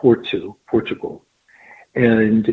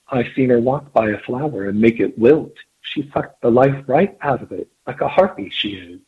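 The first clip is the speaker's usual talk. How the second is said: lightly voiced Cockney cook; a hint of gossipy Cockney; Cockney accent. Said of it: "would say in her Cockney accent".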